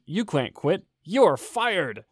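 imitating an emphatic boss, mildly hammed-up; Michael. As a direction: fire someone with mock authority, punching the last words. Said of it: "And Michael, the manager, says".

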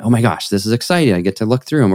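quick, lightly acted eager anticipation; mild excitement. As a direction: play a touch of eagerness to begin. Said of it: "it might be excitement".

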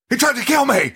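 angry scream. Retold or imitated. Retelling the movie kid's call to hotel security, angry scream. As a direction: imitate an outraged high, loud scream. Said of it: "Screams it so angry".

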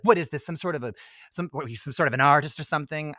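lightly mocked haughty film heroine; Kate Winslet. Grabbing his sketchbook, lightly mocked haughty questioning. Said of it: "and she's like".

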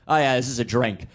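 flat, indifferent shrug of a line; apathetic. Retold or imitated. Son imitating his dad sipping soda, mildly apathetic. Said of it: "and just apathetically".

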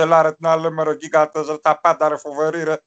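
impression of a thirty-year-old coach; Alefantos at thirty. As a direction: rattle it off as the younger man. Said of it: "τριάντα χρόνων, μιλούσε". (μίμηση νεότερου προπονητή)

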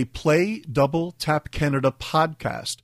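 slow, clear spoken command. Shown as a demonstration. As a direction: say it slowly to the speaker. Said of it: "and then just say".

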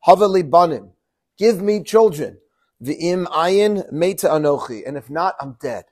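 a wife in despair pleading with her husband; desperate plea. Acted. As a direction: beg him for children, at your wit's end. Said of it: "she says to Jacob".

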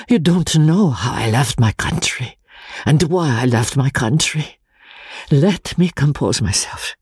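a lightly voiced, shaken older foreign friend; shaken Italian friend. Pesca shaken by Walter's request, lightly voiced and unsettled.

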